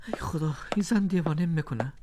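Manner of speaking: whispered despair under his breath; exasperated whisper. Acted. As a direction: hiss it to himself, fed up. Exasperated alone in empty house. (زمزمهٔ کلافه)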